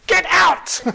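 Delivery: high, explosive bellow; comic troll roar; shouted command. Acted. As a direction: yell the order at full force. Troll repeats his shouted command.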